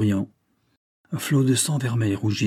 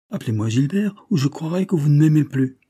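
irrité; 6 semitones higher, 4 dB louder than usual. A narrator's reading. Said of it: "d'un accent irrité".

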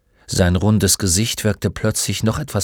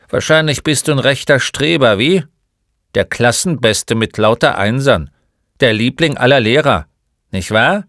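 loud, sarcastic guessing; lightly voiced crusty old man; needling old shopkeeper; 4 semitones higher, 6 dB louder than usual. Old man guesses the boy is a swot, mildly scornful.

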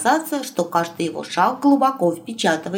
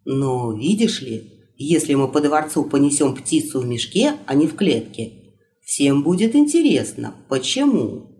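sly reasoning in a lower voice; sly, low prince voice; 5 semitones lower than usual. Acted. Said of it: "хитро улыбнулся царевич".

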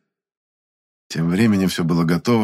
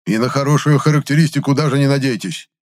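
raised, spiteful threat; spiteful promise; 7 semitones higher, 4 dB louder than usual. A narrator's reading. Pharmacist spitefully threatening Gennady's reference, raised. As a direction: promise it with malice. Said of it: "зло пообещал мне Фурбрихер".

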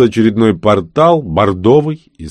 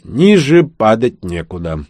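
mock tragic; 3 dB louder, slower than usual. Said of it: "трагически произнёс Пифуций".

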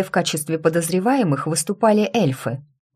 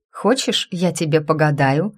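lightly voiced Amanda offering. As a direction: offer it brightly, «Хочешь» lifted up. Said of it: "предложила Аманда". (слегка озвученная Аманда предлагает погадать)

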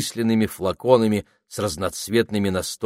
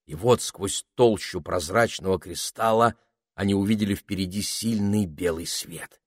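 ordinary delivery, nothing marked

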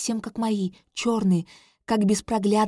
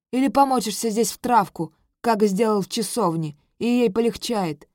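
mocking voice; 4 dB louder than usual. Mocking voice answers guard.

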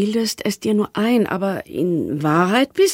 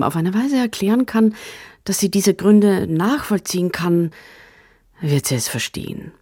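inner monologue; 3 semitones lower than usual. Acted.

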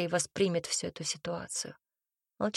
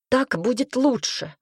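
slow, stubborn and louder; stubbornly; 4 semitones higher, 5 dB louder, slower than usual. A narrator's reading. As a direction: dig in your heels slowly. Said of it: "упрямо повторила Ника".

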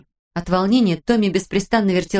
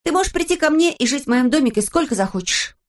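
reassuring; 7 semitones higher than usual. A narrator's reading. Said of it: "чтобы ободрить графиню".

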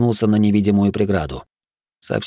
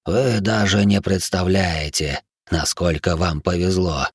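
slow, hoarse dying voice; deathbed whisper; 2 semitones lower, slower than usual. Acted. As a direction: gloat with failing breath. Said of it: "хрипло прошептал умирающий".

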